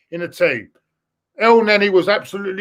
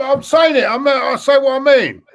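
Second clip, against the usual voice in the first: heated; 5 semitones higher, 4 dB louder than usual. Real, not acted. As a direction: voice raised higher, insistent. Heated rant about the club.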